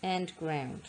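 slow, with play and ground set apart by a pause; teacher splitting a compound word, slowly; slow segmenting. Shown as a demonstration. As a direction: pause between the two halves. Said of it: "made up of play".

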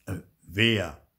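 whispered, puzzled; whispered question. A narrator's reading. Papa baffled by the invisible brother, whispered.

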